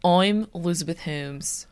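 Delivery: deep put-on founder voice; Elizabeth Holmes. Host opening the podcast as a founder, mock-deep voice. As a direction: introduce yourself in a low, serious impression. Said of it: "because your voice was lower".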